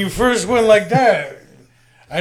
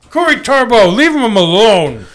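loud, slow call-out to Corey; slow down and scold loudly; stern call-out; 2 semitones higher, 6 dB louder, slower than usual. Pretend. Calling out on camera.

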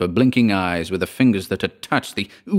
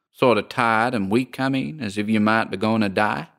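lightly voiced, curious American landlady; drawling landlady. Landlady questions the lodger.

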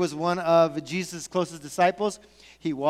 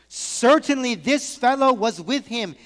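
firm assertion; 4 semitones higher, 4 dB louder than usual. Acted. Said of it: "another asserted".

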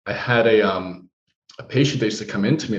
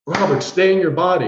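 a hint of a firm shout, higher; mild mock yell; 7 semitones higher than usual. Healer yells at patient Robert, mild mock shout. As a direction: healer calling him back, half-hearted. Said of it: "And she yells at me".

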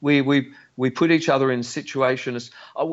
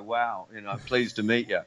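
deadpan cool; 6 dB quieter than usual. Retold or imitated. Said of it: "blow the smoke out ... and go".

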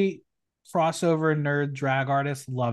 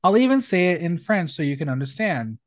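lively, projected read-out of a roast; performed drag-roast reading. Acted. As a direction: announce the name, then deliver the jibe. Reads out contestants' roast jokes.

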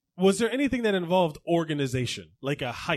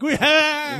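high-pitched whoop; reenacted burst of glee; retold gleeful cheer; 10 semitones higher, 3 dB louder than usual. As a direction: whoop like kids who struck it rich. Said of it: "We were like".

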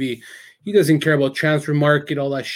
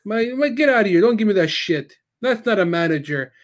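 higher-pitched mock rant; imitating indignant father; 6 semitones higher than usual. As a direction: retell a dad's outburst, laughter slipping in. Retold father's rant at new manager.

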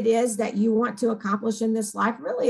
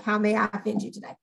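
mock snarky; 2 semitones lower, 4 dB quieter, faster than usual. Shown as a demonstration. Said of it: "meant as a spoof and to be funny".

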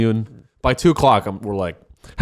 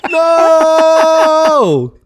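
much higher, louder hammed-up cry of no; mock shout; 7 dB louder than usual. Narrating the catapult scene, hammed-up high shout. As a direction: yell it like the catapult is coming.

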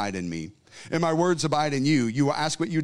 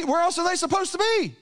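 emphatic; 13 semitones higher than usual. Acted. Preacher repeats question with force.

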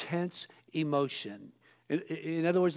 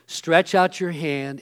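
slow, louder, deliberate command; calm command; 7 dB louder, slower than usual. Retold or imitated. Preacher voicing Jesus commanding the man, slow and firm. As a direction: give the order slowly and firmly. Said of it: "he says".

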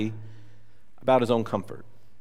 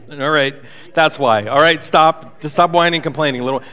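stern God; 5 dB louder than usual. Pretend. God scolding the whiner.

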